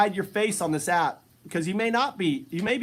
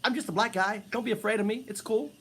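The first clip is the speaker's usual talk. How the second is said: mock reassuring; 5 dB quieter than usual. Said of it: "you smile at them and go".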